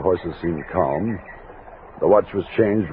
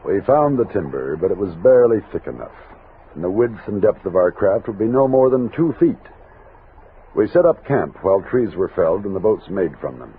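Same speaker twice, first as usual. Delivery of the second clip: story narration. A narrator's reading. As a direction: tell it like a frontier memoir. Narrator describes camp and boats.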